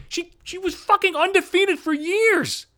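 high, slow, shouted defense; furious outburst. Real, not acted. Ranting at sports writers, furious high slow shout. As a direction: rant it out, voice jumping up high.

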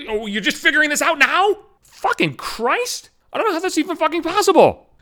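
furious sarcasm at the bank rep; exasperated. Real, not acted. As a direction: drag out Christ in disbelief.

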